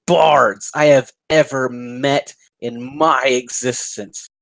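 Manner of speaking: slow, lightly voiced villain's taunt; vicious mockery. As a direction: draw out the insults with mild acted contempt. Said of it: "take Vicious Mockery".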